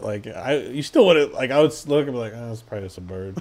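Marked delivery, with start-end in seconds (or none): 2.3-3.4 unimpressed. Acted. Imagined unimpressed onlooker.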